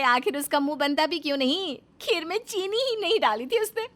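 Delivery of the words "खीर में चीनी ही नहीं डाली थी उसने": mocking. A narrator's reading. Narrator mocks Koyal.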